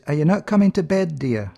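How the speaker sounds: a new wife calling her groom to bed; bride calling the groom. Acted. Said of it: "And she says".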